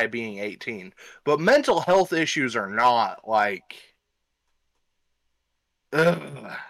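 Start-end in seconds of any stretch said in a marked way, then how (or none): 5.9-6.6 disgusted groan. Real, not acted. Disgust at the excuse.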